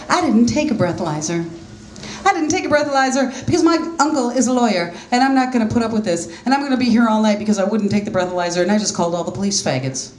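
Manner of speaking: fast, high, mildly bratty rant; cocky. Retold or imitated. Mocking a cocky young girl in the holding cell. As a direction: rattle it off like a smug teen. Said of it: "she was pretty cocky".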